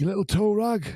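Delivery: whispered wrestling villain sneer; William Regal voice. Retold or imitated. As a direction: hiss it like a menacing wrestler. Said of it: "I do the, the William Regal voice".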